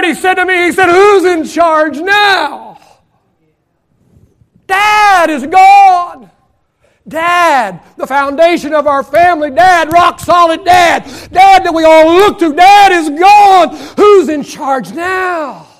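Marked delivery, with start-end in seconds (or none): 0.9-2.8 slow, drawn-out plea, a touch of anguish; mild echo of a grieving son's question; grieving friend's cry. Retold or imitated. Preacher retelling his grieving friend's question, slow and pleading. 4.7-15.7 slow, loud, pounding preacher's cadence; full-force preaching. Acted. Preacher building on a friend's grief, slow and thundering.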